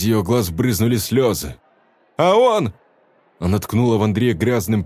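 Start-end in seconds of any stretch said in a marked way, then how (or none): 2.2-2.7 high, loud cry; woman crying out to the crowd; loud exclamation. A narrator's reading. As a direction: point him out. Velda points at Andrei.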